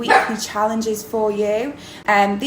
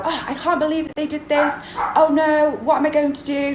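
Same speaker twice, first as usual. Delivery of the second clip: lightly acted dismay, pitched a bit higher; acted character's thoughts; 5 semitones higher than usual. Shown as a demonstration. Drama teacher demonstrates a spoken-thoughts monologue, lightly acted dismay. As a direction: think aloud like a character on stage. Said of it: "it's sort of like a big speech. Um, occasionally, it's thoughts".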